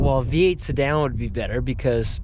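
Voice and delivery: lips too cold to move, words slurred; talking with a frozen mouth. Real, not acted. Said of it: "sorry, my mouth is frozen".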